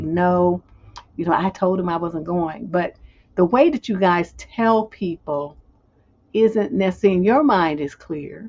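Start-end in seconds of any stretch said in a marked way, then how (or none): none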